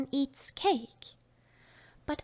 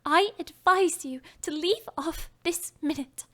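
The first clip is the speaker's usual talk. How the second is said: firm, higher self-reproach; rather sharply; 4 semitones higher than usual. Acted. Alice scolds herself to stop crying, sharply. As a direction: order yourself to stop at once. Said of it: "rather sharply".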